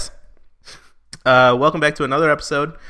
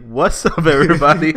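sassy; 3 semitones higher, 4 dB louder than usual. Pretend. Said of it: "that little attitude".

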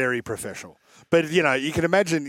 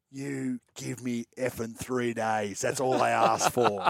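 slow, heavy, menacing words; stern threat; 3 dB quieter, slower than usual. Retold or imitated. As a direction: lay down the law slowly. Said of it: "never heard me speak like that".

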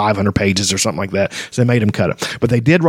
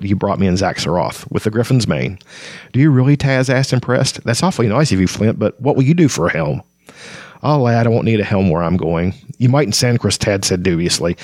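story narration. A narrator's reading. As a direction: read the scene like an audiobook. Continues reading the novel.

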